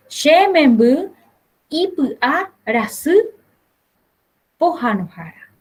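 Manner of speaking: lightly voiced mother. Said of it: "Entonces va a ser".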